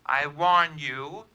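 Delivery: slow, drawn-out amateur warning; unconvincing threat. Acted. Anonymous caller gives Holliday a last warning, unconvincing threat. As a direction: warn him off, not very convincingly. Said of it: "worst imitation of a squeeze play".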